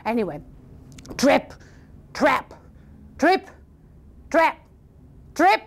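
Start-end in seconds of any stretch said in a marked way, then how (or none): 1.2-5.6 heavy, widely spaced steps, lightly suggested; thunderous hoofsteps. Acted. Biggest goat crossing the bridge, deliberate heavy steps. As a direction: land each word separately as a weighty step. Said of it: "it sounded like thunder".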